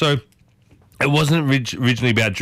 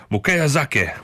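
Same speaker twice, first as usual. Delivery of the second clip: attempted Japanese accent; slower than usual. Shown as a demonstration. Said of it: "get better at these accents".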